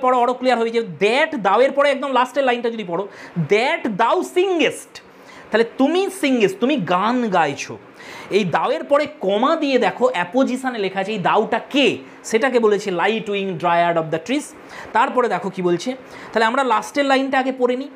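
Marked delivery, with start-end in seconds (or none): 3.5-4.9 singest drawn out very slowly at the end; slow poem reading. Shown as a demonstration. Teacher reads verse aloud. 13.0-14.5 slow poem reading. Shown as a demonstration. Teacher recites poem line.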